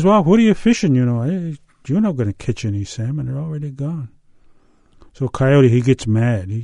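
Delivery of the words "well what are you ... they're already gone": starts higher and louder, then settles back; a hint of a teasing Frog. Storyteller voicing Frog telling Coyote the salmon are gone, mildly teasing. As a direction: Frog needling Coyote, fading back to normal.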